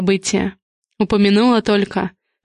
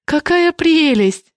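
higher and slow, breathless delight; gasping delight; 8 semitones higher, much slower than usual. Acted. Hostess opens earrings from her brother, gasping delight. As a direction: gasp with joy at the gift. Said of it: "ахнула".

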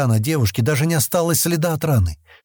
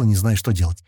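ordinary delivery

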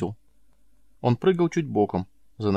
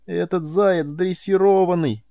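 forced out; 9 semitones higher, 5 dB louder, slower than usual. A narrator's reading. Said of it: "выговорил я".

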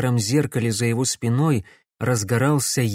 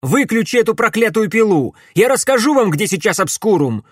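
desperate shout; 9 semitones higher, 6 dB louder than usual. Acted. Boy pleading with thug, shouting.

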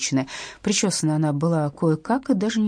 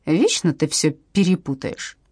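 ordinary delivery

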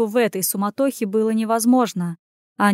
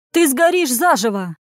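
higher, alarmed cry; shouted warning; 4 semitones higher, 4 dB louder than usual. A narrator's reading. Innkeeper warns Anya away from fire, shouting. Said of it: "закричал трактирщик".

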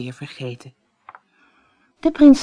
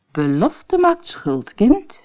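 slow, solemn father; stern king; 5 semitones higher, 3 dB louder, slower than usual. Acted. King tells his daughter a promise is a debt, slow and stern. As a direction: pronounce it like a verdict.

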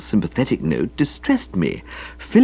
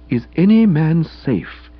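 musing; 5 semitones higher, slower than usual. Acted. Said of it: "still musing".

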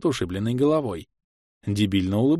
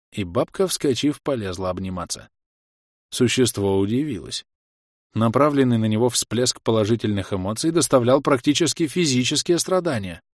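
ordinary delivery

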